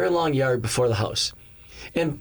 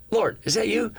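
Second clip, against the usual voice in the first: shocked disbelief; 8 semitones higher than usual. Retold or imitated. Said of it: "I mean, I was shocked".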